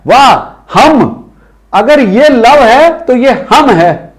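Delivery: slow, teasing wrong guess; mock logic. Shown as a demonstration. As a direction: play the naive student slowly. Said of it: "नहीं जनाब". (मज़ाक में धीरे से)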